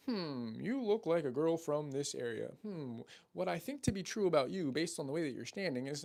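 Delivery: hammed-up smarmy line reading; mock pickup-artist delivery. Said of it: "they sound fucking stupid".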